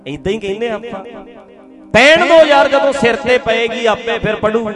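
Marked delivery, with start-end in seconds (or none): 1.9-4.7 loud exclaiming. Real, not acted.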